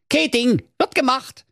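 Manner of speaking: chirpy, high and breezy; cheerful. A narrator's reading. Schnitzelschorsch promising cheerfully, high and breezy. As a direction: toss it off happily. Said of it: "rief der Schnitzelschorsch fröhlich".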